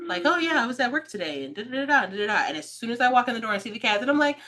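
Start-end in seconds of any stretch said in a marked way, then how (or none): 0.3-2.4 lightly acted everyday phone voice, a bit higher; normal phone chat. Telling sister about work on the phone, mock normal chatty voice. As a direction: chat casually, as if mid phone call. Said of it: "a normal people sentence".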